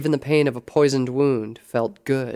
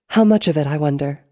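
arch probing; 3 semitones higher, 9 dB louder than usual. A narrator's reading. Black Rose probing whether it was a test, arch. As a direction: wonder aloud, teasingly pointed.

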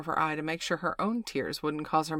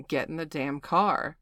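impatient. Acted. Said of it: "she said, losing her patience".

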